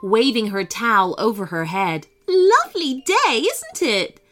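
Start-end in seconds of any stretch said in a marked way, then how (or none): 2.3-4.2 high, loud call across the beach; cheerful shout. Acted. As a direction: hail them brightly from afar. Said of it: "shouted the woman".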